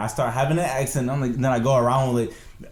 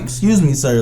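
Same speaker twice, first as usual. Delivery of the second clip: playfully scandalized, pitched up; mock indignation; 3 semitones higher, 5 dB louder than usual. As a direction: act taken aback and call him out. Acted reaction to a rapper's boasting.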